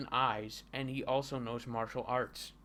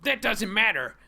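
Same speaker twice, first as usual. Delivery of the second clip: loud, high defiant dub voice; Asian accent; 7 semitones higher, 9 dB louder than usual. Acted. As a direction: proclaim it with a mock Asian accent. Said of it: "I'm going to use an Asian accent".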